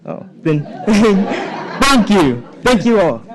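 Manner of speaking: embarrassed laugh through thanks. Real, not acted. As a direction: laugh sheepishly while thanking. Laughs after being cut off by time.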